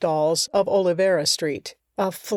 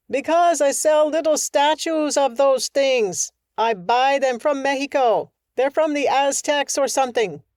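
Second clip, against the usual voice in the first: shopkeeper calling down; 5 semitones higher than usual. Acted. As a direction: shout the answer down.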